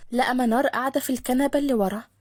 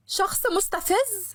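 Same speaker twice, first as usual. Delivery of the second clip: slow, higher indignant cry; mild mock yell; 7 semitones higher, slower than usual. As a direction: fling it after him. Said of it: "وهي بتصرخ". (منار بتزعق بغيظ خفيف)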